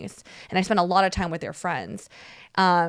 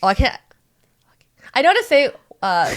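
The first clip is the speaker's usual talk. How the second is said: whisper; 6 semitones higher, 7 dB louder than usual. Real, not acted. Whispered aside.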